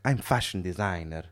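put-on comic Italian-accented English; stereotypical Italian accent. Italian designer naming his job, comic Italian accent. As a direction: state it like a cartoon Italian. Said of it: "the comically stereotypical accent".

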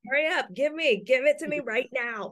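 high, pushy, impatient voice; demanding husband. Retold or imitated. Joins the demanding husband act.

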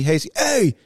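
high-pitched HEY to cut through chatter; teacher yell. Shown as a demonstration. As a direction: escalate to a sharp, high call for attention. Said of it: "I had to yell".

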